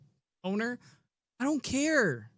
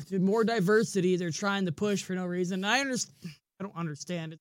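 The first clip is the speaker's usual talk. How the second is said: ordinary talk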